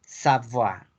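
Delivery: Savoie repeated as "sa-vwa"; French Savoie, E silent; French pronunciation. Shown as a demonstration. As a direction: say Savoie with a "wa" ending. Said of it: "se pronuncia como una A".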